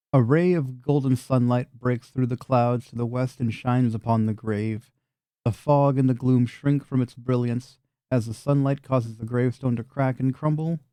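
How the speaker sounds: calm storybook read; scene narration. A narrator's reading. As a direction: set the scene, steady and even. GM reads scene description.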